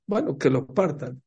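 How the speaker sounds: casual, unbothered go-ahead; indifferent consent. Retold or imitated. Mother-in-law letting them split the groom, indifferent. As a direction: agree as if it costs nothing.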